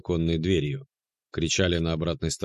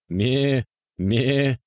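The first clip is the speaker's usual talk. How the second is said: high bleating Ме; goat bleat; 6 semitones higher, 4 dB louder than usual. A narrator's reading. Locked goat joining the racket, high bleat.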